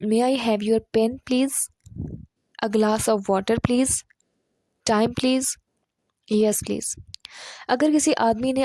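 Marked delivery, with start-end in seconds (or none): 0.1-7.0 very slow, careful model phrasing; slow polite demo. Shown as a demonstration. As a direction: spell out each polite request slowly. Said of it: "ان sentences کو آپ نے English میں اس طرح سے بولنا ہے کہ". (آہستہ، شائستہ انداز میں مثال)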